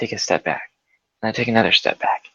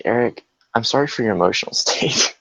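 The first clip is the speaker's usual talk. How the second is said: laughing mock apology.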